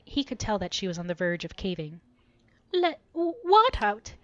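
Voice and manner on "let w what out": higher, louder, stammering defiance; trying to sound firm while wavering; forced resolve. Acted. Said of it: "in an attempt to strengthen her resolve".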